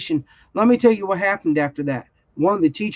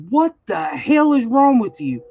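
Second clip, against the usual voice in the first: higher, mildly heated mock yell; retold angry outburst; 4 semitones higher than usual. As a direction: re-enact a mad parent confronting someone. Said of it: "I'm mad. I'm freaking out".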